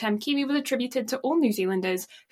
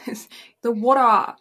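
put-on water in an English accent. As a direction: say water with a British lilt. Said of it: "going back to accents again".

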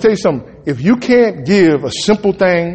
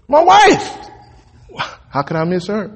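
joking falsetto; 11 semitones higher than usual. Pretend. Joking about needing nothing.

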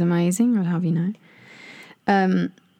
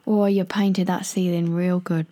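Cockney accent. Shown as a demonstration. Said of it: "the Cockney accent".

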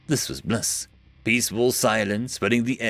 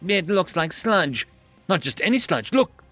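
proud inventor; 6 semitones higher than usual. Acted. Jamie shows off her invention.

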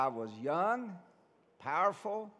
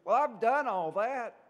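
higher, much louder, indignant insistence; justifying himself; 7 semitones higher, 9 dB louder than usual. Retold or imitated. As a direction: push back hard, you've kept every rule. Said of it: "he had to justify himself".

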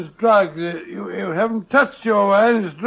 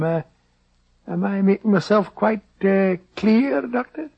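a lightly done Scottish brogue, rolling and folksy; doctor hides behind a fake Scottish accent; put-on Scottish accent. Disguised doctor bargains with the schoolmaster in put-on Scottish accent. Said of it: "your Scottish accent is beginning to disappear".

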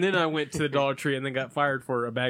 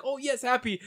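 cat's happy voice; 10 semitones higher than usual. Retold or imitated. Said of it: "she's like".

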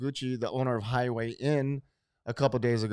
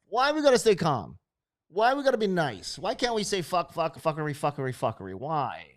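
calm turning angry; 4 semitones higher, 3 dB louder than usual. Real, not acted. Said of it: "Look, I'm trying to stay calm".

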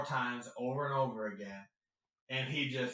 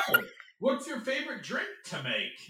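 high, bubbly interviewer voice; overly sweet chirp; mock-cheerful question; imitating actor; 11 semitones higher, 4 dB louder than usual. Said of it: "And he's like".

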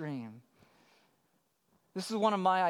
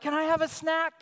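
imitated little girl; 7 semitones higher, 4 dB louder than usual. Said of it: "she'll be like".

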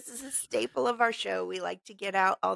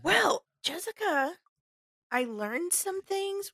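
dramatic announcer voice; 10 semitones higher, slower than usual. Pretend. Dramatic show segment intro.

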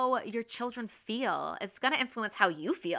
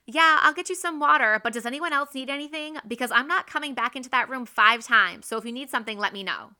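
louder, higher grumbling yes; grudging; 3 semitones higher, 7 dB louder, faster than usual. Retold or imitated. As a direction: mom complaining as she agrees to help. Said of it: "that was not necessary".

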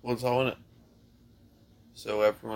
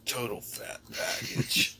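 slow, breathy ad-man impression of a yogurt commercial; mock commercial guy; much slower than usual. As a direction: drawl it like a TV ad voiceover. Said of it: "I just thought of the guy. In the commercial".

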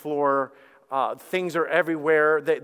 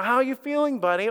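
cool nurse check-in; 8 semitones higher than usual. Retold or imitated. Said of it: "You know how they play it all cool".

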